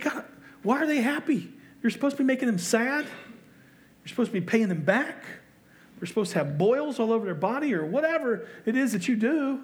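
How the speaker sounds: indignant complaint. Retold or imitated. Preacher voicing his own angry prayer, indignant. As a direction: whine to God that it's not fair. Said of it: "It's like".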